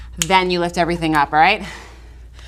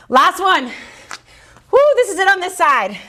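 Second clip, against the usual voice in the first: high, laughing effort cheer; laughing whoo; 9 semitones higher, slower than usual. Real, not acted. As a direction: laugh through the strain. Laughing through the last rep.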